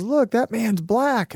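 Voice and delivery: put-on a child announcing what she sees; lightly voiced little girl. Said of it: "she goes".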